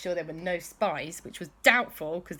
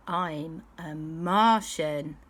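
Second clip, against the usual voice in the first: slow reveal; much slower than usual. Acted. Slow grand reveal to friends.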